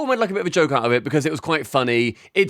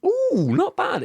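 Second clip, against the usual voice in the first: high, mock-impressed ooh; sing-song teasing approval; much slower than usual. Real, not acted. Teasing reaction to a guess.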